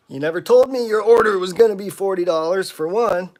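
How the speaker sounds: a customer haggling too hard gets an irritated comeback; exasperated retort. Retold or imitated. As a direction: snap back at the customer in disbelief. Retold argument with scammer customer.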